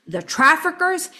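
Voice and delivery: retold yell. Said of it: "He was yelling at me".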